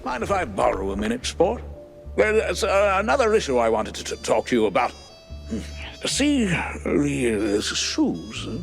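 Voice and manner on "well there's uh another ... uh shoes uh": halting, with fillers and false starts; hesitant informant. Acted. Informant broaches an issue with Jack, hesitant and halting. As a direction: feel your way towards an awkward subject.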